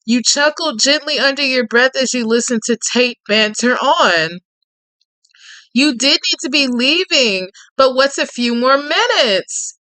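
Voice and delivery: even, lightly dramatic storytelling read; story narration. A narrator's reading. Narrating Tate's menace to the listener in a gentle storyteller read. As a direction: draw the listener into the tale.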